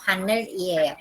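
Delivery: 하늘이에요 as haneul, then ieyo, with an L; unlinked misreading. Shown as a demonstration. Teacher showing what we don't say, unlinked. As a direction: keep 하늘 closed and apart from 이에요. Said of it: "nosotros no decimos".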